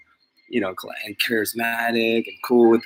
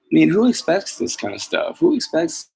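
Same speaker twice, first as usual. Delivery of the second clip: much higher, incredulous who expects; exasperated question; 7 semitones higher than usual. Real, not acted. Vlogger incredulously asking who expects such a thing. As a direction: throw the question up in disbelief.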